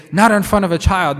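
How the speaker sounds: mock alarm at grown-up talk; scandalised warning. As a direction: hush them sharply like a shocked adult. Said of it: "people say".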